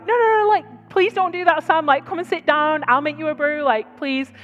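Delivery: high, pleading polite refusal; polite British protest. Retold or imitated. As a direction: fuss over him like a reserved Brit begging him to stop. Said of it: "the British reserve in me was like".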